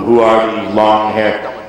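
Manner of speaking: low, slow mock scoff; disapproving elder. Mocking adults who disliked a band, low slow scoff. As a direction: scoff like a stuffy relative. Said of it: "anti-Beatle move of".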